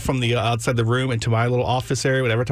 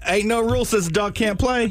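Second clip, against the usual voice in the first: movie quote voice; 9 semitones higher than usual. Retold or imitated. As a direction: quote Air Bud with a big high voice. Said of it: "were you trying to do an Irish accent".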